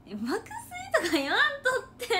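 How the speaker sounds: high, loud, laughing whine; laughing protest. Pretend. Embarrassed idol pleading with fans, laughing loudly. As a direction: squeal it through laughter, embarrassed.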